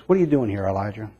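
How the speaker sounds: soft, hushed and compassionate; quiet voice. Acted. God gently questions the weary prophet, quiet. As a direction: murmur it gently, fading on Elijah. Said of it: "It's a quiet voice".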